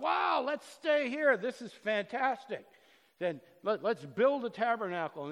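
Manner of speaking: wide-eyed followers shouting in amazement; excited disciples. Retold or imitated. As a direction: cry out in wonder at the glory. Disciples awed on the mountain.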